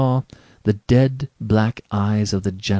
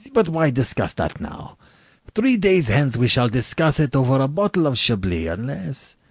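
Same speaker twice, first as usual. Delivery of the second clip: high, dismissive general's voice; airy general; 6 semitones higher than usual. Acted. General postponing the talk over Chablis, airy. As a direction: wave the matter off in raised pitch.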